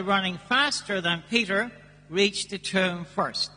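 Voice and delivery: measured solemn Gospel reading; scripture reading. Acted. Priest reads the Gospel aloud.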